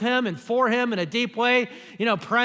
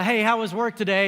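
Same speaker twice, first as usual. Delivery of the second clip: breezy cliche greeting; 2 semitones higher than usual. Shown as a demonstration. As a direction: toss off "Hey, how was work today?" as pure routine. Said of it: "And cliche".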